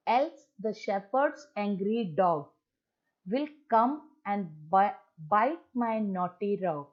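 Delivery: slow, drawn-out warning recital; poem recitation. Shown as a demonstration. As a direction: read it slowly as a gentle threat. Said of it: "और या फिर". (धीमी चेतावनी भरी कविता)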